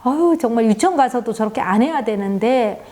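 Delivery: a mild mock scolding of the child; continued scolding. Friend keeps scolding her clumsy child, mild mock anger. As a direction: grumble at the child's clumsiness, lightly acted. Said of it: "계속 야단을 치는 거예요".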